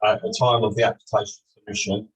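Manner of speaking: distant echoing bad microphone; down a well. Real, not acted. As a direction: voice hollow and far away, like down a well. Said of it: "you sound like you're at the bottom of a well".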